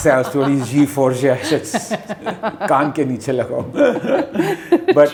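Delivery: fast, laughing aside spoken in Hindi.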